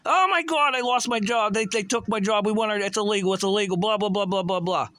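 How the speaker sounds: high-pitched mock wail, gradually winding down; mock crying complaint. Imitating laid-off workers who lost their jobs, mock crying. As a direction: mimic whiners, trailing into dismissive blahs. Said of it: "They're all crying".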